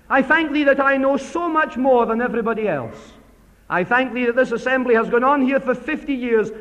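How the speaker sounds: a proud man thanking God for himself, swelling as he goes; smug Pharisee prayer. Acted. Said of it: "that kind of prayer".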